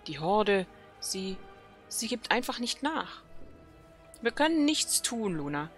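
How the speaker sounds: lightly voiced night elf sentinel, urgent; dramatic quest reading. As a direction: read the quest text like a worried elf commander. Reads quest dialogue aloud.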